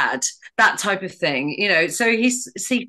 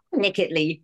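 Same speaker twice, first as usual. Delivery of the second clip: witch delivery; 3 semitones lower, faster than usual. Retold or imitated. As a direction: savour the word like a wicked witch. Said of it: "the Wicked Witch says".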